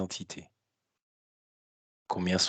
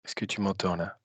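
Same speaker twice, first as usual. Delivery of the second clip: on speakerphone; 3 semitones lower, 6 dB quieter than usual. Real, not acted.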